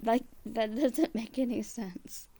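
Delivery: loud, high-pitched incredulous challenge; exasperated outburst. Real, not acted.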